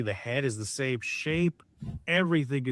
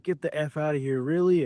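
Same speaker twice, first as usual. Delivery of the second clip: imitated excited disbelief; 3 semitones higher than usual. Host retelling a son's reaction to the call, mildly mimicking his excitement. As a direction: lightly mimic a thrilled man, lifting the last word. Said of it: "he's just so excited".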